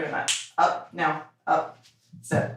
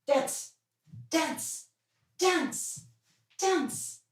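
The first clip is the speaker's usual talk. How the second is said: higher and softer with each call; high sing-song command; 10 semitones higher, 8 dB quieter, much slower than usual. Real, not acted. Owner coaxing her dog to dance, high sing-song call. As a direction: coax the dog up into a dance, pitch rising.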